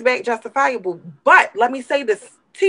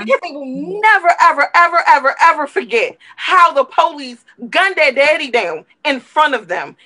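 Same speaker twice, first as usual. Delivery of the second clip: rising, insistent repetition of ever; impassioned; 4 semitones higher than usual. Real, not acted. Speaking for children who saw their father shot, insistent. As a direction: pile up the evers with mounting passion. Emotional outburst on children's trauma.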